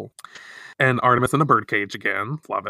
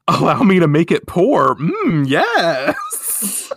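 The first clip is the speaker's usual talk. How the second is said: smug mockery; 5 semitones higher, 5 dB louder, slower than usual. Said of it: "she says".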